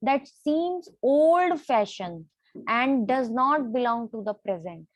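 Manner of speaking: words drawn out one by one for students to write; measured classroom dictation; slow dictation. Shown as a demonstration. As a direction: dictate it slowly, word by word. Teacher dictating a definition.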